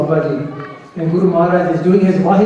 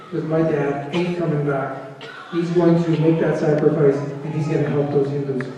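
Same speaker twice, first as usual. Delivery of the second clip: softer, lower, a quiet realisation; quiet voice of a boy knowing his father won't return; hushed inner thought; 5 semitones lower, 7 dB quieter than usual. Retold or imitated. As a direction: let it drop to a sad hush.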